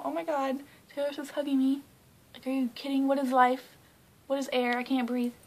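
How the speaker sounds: high, loud retold fangirl meltdown; freaking out. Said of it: "I'm, like, freaking out".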